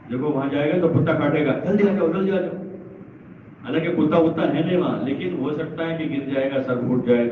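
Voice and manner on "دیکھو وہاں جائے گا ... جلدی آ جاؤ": lightly acted parent's warning, pitched higher; worried parent warning. Parents scaring a child away from danger, mock urgent warning. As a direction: urge a straying child back, higher voice. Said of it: "کوئی ڈر بتاتے ہیں ماں باپ".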